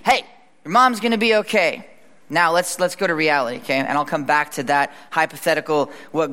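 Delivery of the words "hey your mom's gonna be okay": upbeat, higher-pitched reassurance; imagined reassurance. Acted. Man reassuring a passing girl about her mom, upbeat. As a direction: call it out as good news. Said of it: "Imagine that scene".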